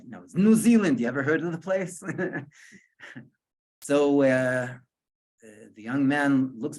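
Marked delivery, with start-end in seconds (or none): 0.2-2.0 emphatic retort. Retold or imitated. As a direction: stress "New Zealand" as if it were obvious. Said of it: "In other words".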